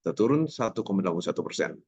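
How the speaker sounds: monotone newsreader read with no expression; flat, lifeless delivery of the figures; expressionless reading. Shown as a demonstration. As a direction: read it blank and bored. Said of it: "tanpa ekspresi sama sekali".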